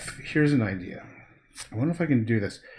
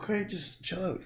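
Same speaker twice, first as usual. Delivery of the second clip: soothing dog; 8 semitones higher, 8 dB quieter than usual. Real, not acted. Calming the dog.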